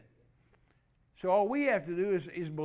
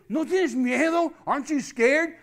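gunman's question; 6 semitones higher, 8 dB louder than usual. Retold or imitated. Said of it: "He said".

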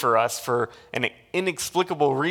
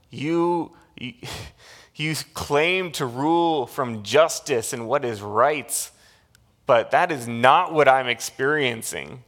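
retold angry outburst, louder and slowed on liar; mock furious accusation at God; yelling at God; 2 semitones higher, 5 dB louder than usual. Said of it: "he starts yelling at God".

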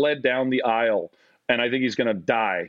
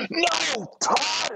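much higher, mock shouted name; exasperated coach yell. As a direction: yell at the player who's out of place. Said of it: "the coach goes".

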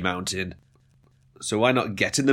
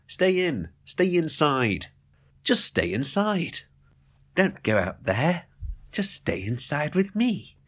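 slow, hushed mock-clingy pleading; creepy coaxing; 5 semitones higher, slower than usual. Host urging listeners to stay inside with him, mock-creepy coaxing.

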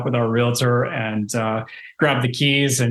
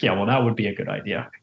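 lower, softer, fast dry sarcasm; 4 semitones lower, 4 dB quieter, faster than usual. Retold or imitated. Buyer telling the owner to cancel the escort, dry sarcasm. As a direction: mutter it as a deadpan jab. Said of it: "I'm like".

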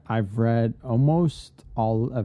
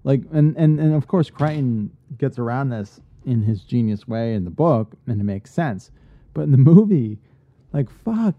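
raised-pitch, exasperated ranting; indignant rant; 5 semitones higher, 6 dB louder than usual. Real, not acted. Fan fuming to a co-host about the movie's accent, indignant. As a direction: protest in loud disbelief.

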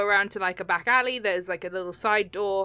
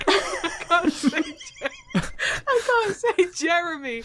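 laughing; 8 semitones higher than usual. Real, not acted. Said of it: "really hard name to me".

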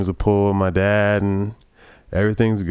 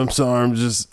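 sheepish trucker voice; 4 semitones higher than usual. Retold or imitated. Trucker answers cop.

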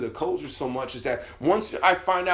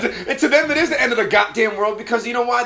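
laughing insistence; 7 semitones higher, 6 dB louder than usual. Real, not acted. Laughing insistence, high loud.

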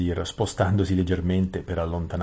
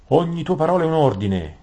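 raised, high-pitched cry of obedience; eager cry; 10 semitones higher, 7 dB louder than usual. A narrator's reading. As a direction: call out your obedience, voice pitched up. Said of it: "gridò Rabadash". (grido di obbedienza, voce acuta)

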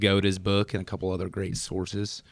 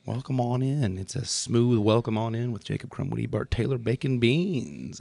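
seventies radio host; 3 semitones higher than usual. Pretend. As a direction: glide it like a late-night DJ. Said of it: "I sound like I'm a seventies radio host".

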